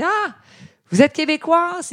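very high, loud exclamation; mock excited taxi driver. Taxi driver recognising a Quebec passenger late at night, mock excited. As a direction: imitate an over-delighted cabbie making a discovery. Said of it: "le chauffeur de taxi me dit".

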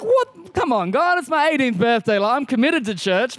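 high, startled protest at God; a mock-incredulous birthday whine; retold surprise. Young pastor balking at God's nudge, surprised protest. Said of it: "I was like".

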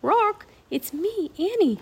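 high, stretched-out call. A narrator's reading. Annie reminds the bird who she is, calling up. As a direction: call up to be recognised. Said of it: "She called up to the bird".

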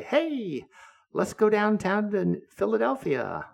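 high squawky parakeet voice; parrot voice. Retold or imitated. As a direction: squawk it like a pet bird. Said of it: "Fluffy would also say".

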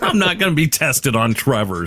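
laughing protest. Real, not acted. Host teased by co-host over Trevor fandom, laughing protest. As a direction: protest while cracking up.

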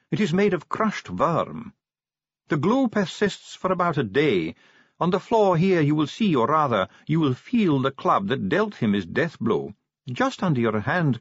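a stiff dwarf bureaucrat, precise; dwarf official. Acted. Ardent's dwarf voice.

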